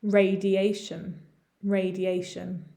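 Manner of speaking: "Radiation" slowly as ray-dee-AY-shun; pronunciation model. Shown as a demonstration. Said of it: "complicated in terms of pronunciation".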